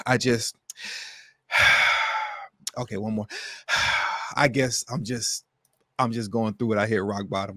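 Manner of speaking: heavy sighs between halting phrases; mock gasping. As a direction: imitate a rehearsed, breath-heaving confession. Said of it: "gasping for air, like".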